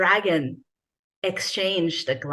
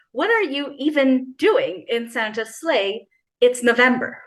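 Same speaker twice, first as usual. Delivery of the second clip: indignant retort; 4 semitones higher than usual. Acted. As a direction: push back hard, offended. Kathy snaps back at the woman.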